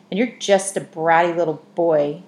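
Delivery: put-on girl yells back at the boy who ran away, loudly; yelled. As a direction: shout the insult after a boy running off. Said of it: "she yelled after him".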